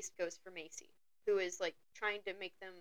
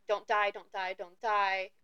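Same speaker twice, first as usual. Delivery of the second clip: retold screaming voice; slower than usual. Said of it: "voice in her head screaming at her".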